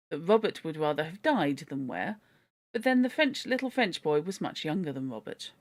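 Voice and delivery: steady, lively storybook reading; story narration. A narrator's reading. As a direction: read it like a children's classic.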